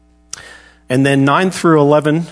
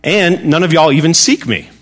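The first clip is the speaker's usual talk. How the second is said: put-on half-hearted Southern accent, pitched higher; Paul; 4 semitones higher than usual. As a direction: have a shaky go at a Southern US accent. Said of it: "I can't do the Southern accent".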